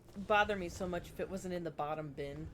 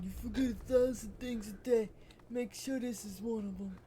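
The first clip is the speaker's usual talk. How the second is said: Michael impression; 4 dB louder than usual. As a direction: quote Michael from the game. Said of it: "Michael going".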